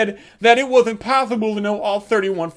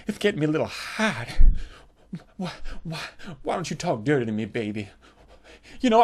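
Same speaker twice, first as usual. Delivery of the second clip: low, soft breathy plea; whispered seduction; 6 semitones lower, 5 dB quieter than usual. Retold or imitated. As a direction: purr it into his ear. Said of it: "she starts whispering in my ear".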